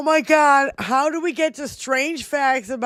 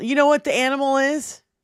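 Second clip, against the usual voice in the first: ordinary talk, nothing marked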